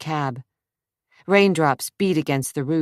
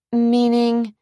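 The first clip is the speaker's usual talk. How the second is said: sharp question; 8 semitones higher, 4 dB louder than usual. Acted. Sharp question in tense dialogue.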